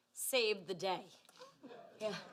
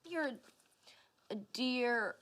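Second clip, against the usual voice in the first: put-on old Southern woman; 3 semitones lower, slower than usual. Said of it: "talking like an old Southern woman".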